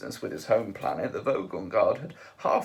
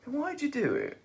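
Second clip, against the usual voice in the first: slowly; 6 semitones higher than usual. A narrator's reading. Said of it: "he said slowly".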